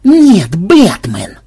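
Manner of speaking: loud, high annoyed retort; irritated sarcasm. A narrator's reading. Programmer answers a silly question about who he is, irritated. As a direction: snap back sarcastically. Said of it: "раздражённо сморщился программист".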